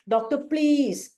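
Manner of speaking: slow, drawn-out plea to the doctor; anxious pleading. Retold or imitated. Patient slowly begging the doctor for help, anxious plea. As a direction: beg slowly, worried for your health. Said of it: "This will be the pleading of Arsalb".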